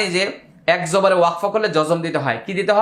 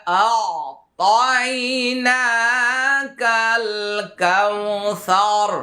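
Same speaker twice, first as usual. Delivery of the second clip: slow, stretched tajweed recitation; teacher recites the verse again, drawn out; Quran recitation; much slower than usual. Shown as a demonstration. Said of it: "এভাবে আয়নাটা ধরে ধরে practice করুন".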